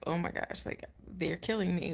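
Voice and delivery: breathy frightened whisper; panicked whisper. Retold or imitated.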